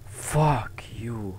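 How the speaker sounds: hissed whisper under breath; whispered curse. Real, not acted. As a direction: whisper the swear to yourself. Cursing the game quietly.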